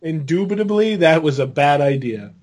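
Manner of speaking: understated calm-boss impression, sinking at the end; measured disapproval, "Indubitably" stated with finality; Vince. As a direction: repeat it as a lightly voiced composed boss. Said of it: "That's my Vince impression".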